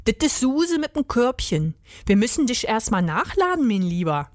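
lightly voiced Berlin-dialect rat, dropping at the end; easygoing Berlin rat. Rat reassuring Dieter about Suse, Berlin dialect. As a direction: explain it like a chummy rat.

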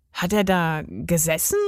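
mildly pert, put-on question; snippy. A narrator's reading. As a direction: ask it with a touch of snippiness. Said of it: "fragte Emil schnippisch". (leicht schnippisch gefragt)

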